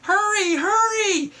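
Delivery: high, loud urgent hurry; high urgent shouted hurry; urgent call. Acted. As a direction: rush the firemen out. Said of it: "firemen rushing".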